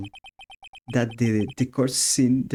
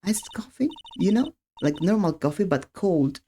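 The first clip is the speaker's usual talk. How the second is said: put-on high girlish explaining voice; April May; 8 semitones higher than usual. Witness explains her drink to the court, high girlish voice. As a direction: explain it sweetly, pitched up high.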